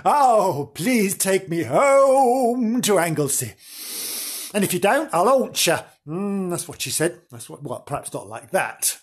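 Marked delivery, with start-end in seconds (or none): 0.0-5.8 lightly voiced pleading maid; a mock plea from the dying maid; pleading chambermaid. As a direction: beg to be taken home, a bit louder. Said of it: "she stipulated".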